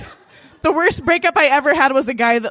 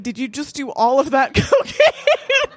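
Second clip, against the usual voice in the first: slowed question breaking into laughter; confused; slower than usual. Retold or imitated. Date questioning her about the empty container, confused. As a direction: imitate a baffled date, stretching the words. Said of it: "I think confused".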